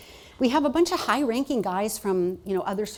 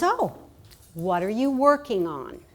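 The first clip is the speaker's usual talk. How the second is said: mom's curious question; 2 semitones higher, 4 dB louder than usual. Retold or imitated. Voicing mom asking.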